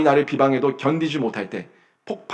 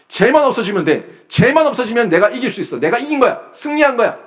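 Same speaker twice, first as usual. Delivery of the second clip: rising higher and higher, a schemer sure of winning; mock gloating; 7 semitones higher than usual. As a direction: voice the plotters' smug triumph, climbing in pitch. Enemies' gloating inner voice voiced.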